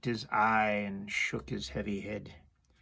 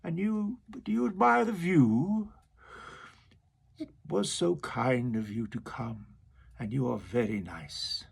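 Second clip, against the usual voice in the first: walrus. Acted. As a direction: flatter the oysters. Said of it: "the walrus said".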